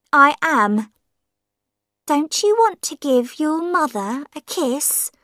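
put-on sly old woman calling herself his mother; old woman's voice. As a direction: tease him as the stranger claiming to be his mother.

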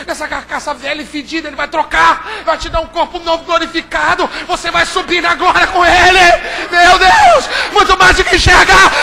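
building to a loud, laughing climax; preaching at full force. Acted. Pastor promising heaven to listeners, rising preaching roar. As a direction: rise to a joyful roar.

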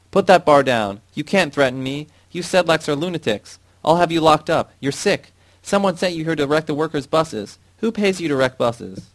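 high, loud panicked yelling; shouting at the top of his voice. Acted. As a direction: scream threats while backing away. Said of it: "shouted at the top of his voice".

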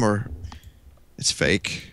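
a breathy unvoiced guess; hushed, unsure aside; unsure whisper. Real, not acted. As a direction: murmur the guess almost silently.

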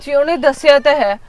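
loud, defensive arguing; wife loudly explaining the goats to husband; loud indignant explanation. Acted. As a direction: justify yourself forcefully.

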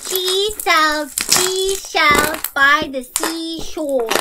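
slow, careful tongue twister; very slowly. Shown as a demonstration. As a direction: read it word by word, scared of slipping. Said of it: "you must read it very slowly".

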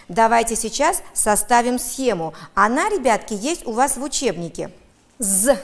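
ordinary talk, nothing marked

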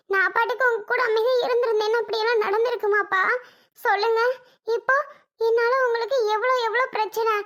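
acted distressed pleading with father; upset daughter blaming herself; tearful self-blame. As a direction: plead through held-back tears. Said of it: "உன்னை அழுகாத அழுகாதன்னு பல திருப்பு சொல்லிட்டேன்".

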